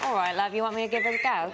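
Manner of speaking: playful put-on Cockney; Cockney accent. Shown as a demonstration. Actress replying to host's challenge, Cockney accent. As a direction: answer gamely in an imitation Cockney. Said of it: "Can you do Cockney?".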